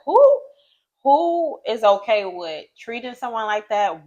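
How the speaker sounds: high, stressed disbelieving question; incredulous. Retold or imitated. Speaker recalls questioning how anyone treats someone so, incredulous. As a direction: draw back in disbelief on the question. Retells own disbelieving thoughts.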